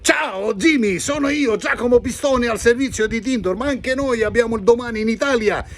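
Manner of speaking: high, lively Italian voice; Italian character. Acted. Italian friend Giacomo greeting Jimmy, high and lively Italian. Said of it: "Vieni qua, vieni qua".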